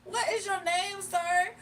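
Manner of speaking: high pointed question; incredulous. Retold or imitated. Retold quarrel with caller.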